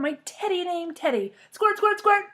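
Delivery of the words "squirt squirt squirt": squeaky high play squirt sound; high loud girlish squirt. Acted. Child pretending to squirt seltzer, high and loud. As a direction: squeal it like a kid playing. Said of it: "I said again".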